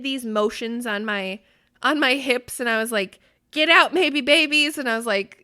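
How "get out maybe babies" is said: a playful yell, higher and louder; mock yelling. Mom mock-yelling at her belly's maybe babies. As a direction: shout at the unborn babies in fun. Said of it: "yelling at them or whatever".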